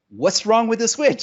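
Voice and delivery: mock the wife's puzzled question. Husband imitating his unimpressed wife, high and puzzled.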